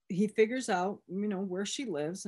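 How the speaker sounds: ordinary delivery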